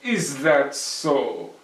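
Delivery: slow, loud and cool; calm challenge to a pipsqueak; Herschel, unbothered. Acted. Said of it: "said Herschel".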